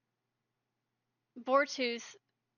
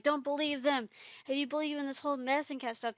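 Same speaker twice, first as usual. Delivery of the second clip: angry; 4 semitones higher, much faster than usual. Retold or imitated. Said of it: "suddenly just hissing, and he's angry".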